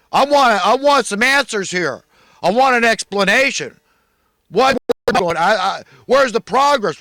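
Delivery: high, loud indignant demands; pissy outraged employer. Pretend. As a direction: shout like a boss demanding answers. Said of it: "get pissy and say".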